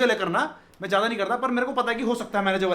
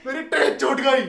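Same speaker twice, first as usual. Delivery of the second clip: a lighter mock shout, slightly raised; milder retold yell; 3 semitones higher, 4 dB louder than usual. Passenger telling the police again that his train left, milder mock yell. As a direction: repeat the complaint with less force. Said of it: "मैं उनके मुंह पे चिल्लाता हूँ".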